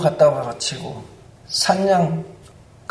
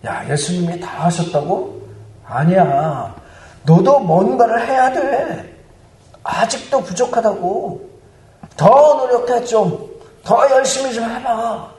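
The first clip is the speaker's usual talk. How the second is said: sly Satan; 3 semitones higher than usual. Acted. Satan telling a believer to try harder, sly coaxing. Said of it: "교묘하게 속삭입니다".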